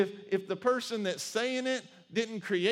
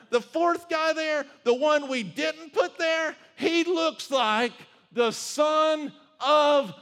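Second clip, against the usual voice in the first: higher and louder, building to a slow shout; a king who can't believe his eyes, yelling; the king shouts to his counselors, astonished; 6 semitones higher, 10 dB louder than usual. Acted.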